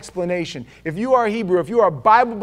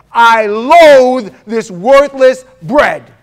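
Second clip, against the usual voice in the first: mock whiny shout; 5 semitones higher, 14 dB louder, much slower than usual. Israelites' complaint, mocked.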